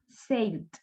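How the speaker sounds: one-syllable "sailed", L straight into D; D-only ending. Shown as a demonstration. Teacher repeats the same rule, closing on D. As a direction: say "sailed" without an extra syllable. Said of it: "Lo mismo".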